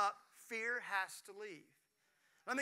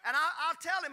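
laughing, pitched up and louder; 7 semitones higher, 6 dB louder, faster than usual. Real, not acted. Pastor laughing as he tells God his complaint. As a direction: chuckle through it.

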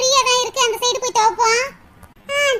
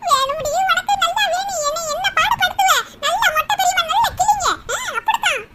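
put-on higher, gloating taunts from the old woman; gloating grandmother; 4 semitones higher than usual. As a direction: crow over her with glee, pitched up. Grandmother gloating over the girl.

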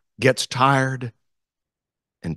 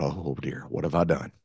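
dismayed inner thought; 7 semitones lower, 7 dB quieter than usual. Retold or imitated. Dismayed thought at first rehearsal.

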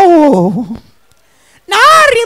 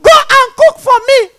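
demanding shout; 8 semitones higher, 5 dB louder, faster than usual. Retold or imitated. Husband demands a third time.

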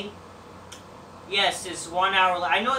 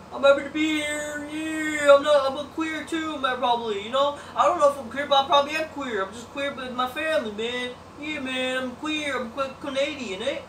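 lightly mocking Canadian wrestler, a bit higher; imitating Sami Zayn; 4 semitones higher than usual. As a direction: tease him with a goofy eager tone. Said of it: "like Sami Zayn".

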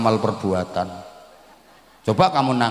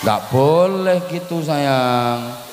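higher, drawn-out coaxing chide; gentle chiding; 4 semitones higher, much slower than usual. Real, not acted. Preacher tells a tearful child not to do that, gently chiding. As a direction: chide a little one tenderly.

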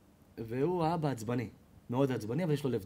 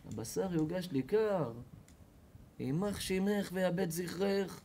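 slow, bitter curse; mock seething husband; 4 semitones higher, slower than usual. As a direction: grind out the curse slowly. Husband cursing slowly.

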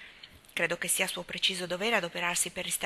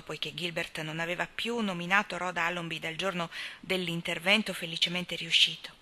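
usual speaking voice

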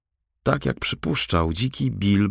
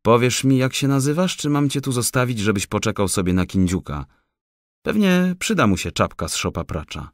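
threatening forester; 6 semitones higher than usual. A narrator's reading. Forester threatens to leave the raccoon, mock menace. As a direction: tease him with danger.

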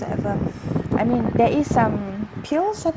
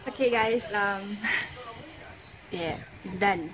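fresh braces on teeth; speaking around new brackets; talking with braces; 9 dB quieter than usual. Real, not acted. Seen 0: Metal braces clearly visible on teeth while she speaks.

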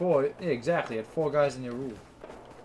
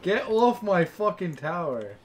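loud slow drawn-out rage; furious yelling; 3 semitones higher, 8 dB louder, slower than usual. Real, not acted. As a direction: yell at the intruder. Enemy on his tower.

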